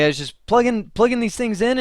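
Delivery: high-pitched mock protest; retold defensive protest. Technician explaining himself to his boss, high and defensive.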